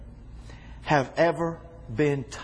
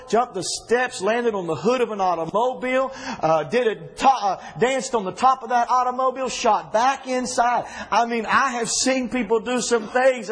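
excited, raised preacher's voice; full-force preaching; 7 semitones higher, 4 dB louder than usual. Acted. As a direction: tell it with mounting revival fervor.

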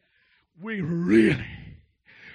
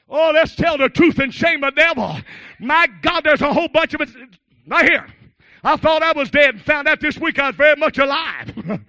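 higher, urgent pulpit confession; raised-voice preaching; 7 semitones higher, 12 dB louder than usual. Real, not acted. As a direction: testify out loud to the congregation.

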